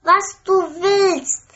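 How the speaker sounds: high princess promising quickly; just say yes to anything; eager promise. A narrator's reading. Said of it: "sagt die Königstochter".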